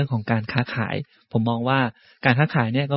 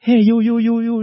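vendor calling out; 10 semitones higher, 7 dB louder, much slower than usual. Retold or imitated. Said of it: "ได้ยินอย่างเงี้ย".

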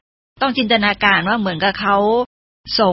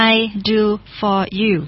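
slow model reading; much slower than usual. Shown as a demonstration. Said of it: "What can".

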